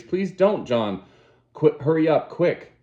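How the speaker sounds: terrified plea. Acted. Lenina terrified, fleeing.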